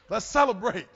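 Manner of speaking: loud celebratory cheer; jubilant son. Retold or imitated. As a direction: proudly call for a party. Son celebrating his grades.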